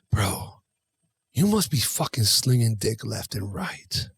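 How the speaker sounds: lightly voiced buddy, dropped low; imitating gym buddy. Gym buddy to Wes on the women around, imitated in a low voice. Retelling friend's crude remark to him.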